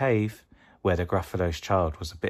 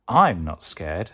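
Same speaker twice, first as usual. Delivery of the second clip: 1 not scared; 5 dB louder, slower than usual. Acted. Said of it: "said the Gruffalo's child".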